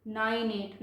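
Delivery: slow, spaced-out number reading; reading demonstration. Shown as a demonstration. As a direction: draw out "टू", pause around "डेसिमल". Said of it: "इसको कैसे पढ़ेंगे".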